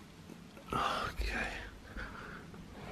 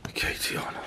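whispering; 10 dB quieter, faster than usual. Real, not acted. Hushed to self.

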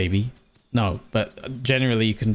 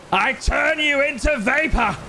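much higher, hammy evil threat; menacing villain voice; 13 semitones higher than usual. Acted. Taunting the arrogant foe in a high villain voice. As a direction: boom it out like a gloating overlord.

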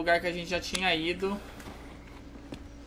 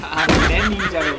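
laughing shout; 10 dB louder than usual. Real, not acted. Enemy appears suddenly.

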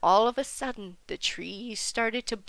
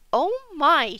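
loud, high, delighted exclamation; cheerful exclamation; 6 semitones higher, 10 dB louder than usual. A narrator's reading. Wolf is given a heckle bone, cheerful exclamation. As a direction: exclaim with happy surprise. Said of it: "cheerfully exclaimed Wolf".

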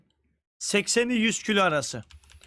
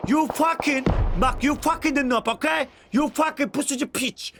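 higher-pitched, punched-out insults; heated multilingual cursing; 3 semitones higher than usual. Real, not acted. Streamer cursing a camper in mixed languages, heated taunt. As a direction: spit broken-English curses at the camper.

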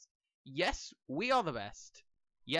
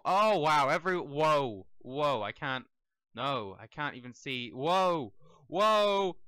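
amazed whoa; 3 semitones lower, 7 dB louder, slower than usual. Real, not acted. Game runs at max speed.

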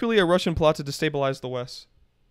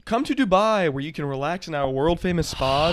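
infomercial. Pretend. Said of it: "I'm gonna read this like an infomercial".

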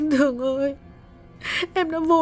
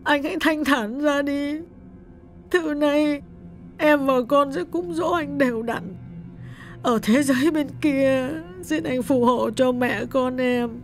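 much higher, soft choked-up woman; choked with tears; 3 dB quieter than usual. A narrator's reading. Widow forgives her dead husband, choked with tears. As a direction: speak through a tight throat. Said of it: "nghẹn ngào bảo".

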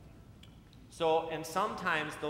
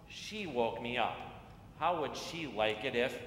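put-on reading to children. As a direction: read it like storytime on the church steps. Reads picture book to children.

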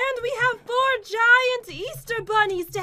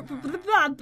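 stuttered b-b-b sheep bleat; sheep impression; 4 semitones lower than usual. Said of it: "I was doing a sheep impression".

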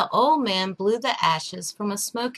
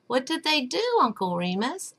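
a lightly voiced small boy, higher and eager; little boy asking; 4 semitones higher than usual. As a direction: ask like a curious little boy. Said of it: "asked the little boy".

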